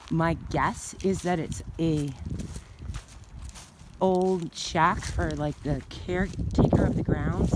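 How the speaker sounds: breathless from walking uphill; winded, catching breath between words. Real, not acted. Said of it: "I'm not out of breath".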